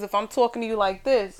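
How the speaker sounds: emphatic New Yorker demo; punchy, insistent delivery. Shown as a demonstration. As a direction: say it pointedly, hands talking. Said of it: "we need to talk with our hands".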